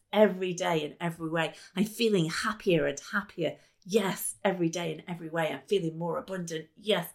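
fast rhythmic chant; quick upbeat self-talk chant; incantation. Shown as a demonstration. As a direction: rattle it off like a mantra. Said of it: "Here's one that is really, really easy".

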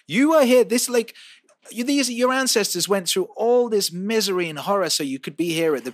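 over-the-top ranting yell at online critics; mock rant shouting. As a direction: bellow it like an outraged preacher scolding the internet. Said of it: "Are you being rude to your fans?".

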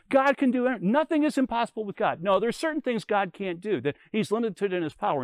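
students shouting back and forth, lightly acted; retold yelling. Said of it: "yelling at each other".

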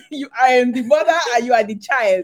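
high, loud, indignant lecture; a touch of a haughty African mother; imitating a stern African parent. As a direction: play the offended parent laying down the law. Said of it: "It's like".

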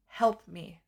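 retold small inner plea; tiny little voice. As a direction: let a wee voice plead from inside. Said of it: "came in this tiny little wee voice".

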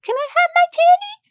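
very high imitated toddler; squeaky little-kid plea; little boy's voice. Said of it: "he's like".

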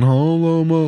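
high, intoned priest imitation. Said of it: "almost like a priest".

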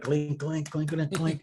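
spoken clink noises, lightly voiced; clink sound effect. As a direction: say clink like glasses touching. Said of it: "so I'll just kind of do, like".

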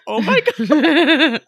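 high, drawn-out gush through laughter; laughing delight. Real, not acted. Reacting to a beloved character's line, laughing delight. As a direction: laugh helplessly as you gush.

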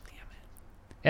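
breathless whispered curse. Real, not acted. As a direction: hiss it under your breath. Whispered aside.

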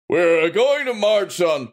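slow, put-on soldier voice; a new gruff voice, drawn out; different gruff voice. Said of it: "That's a completely different voice for me now".

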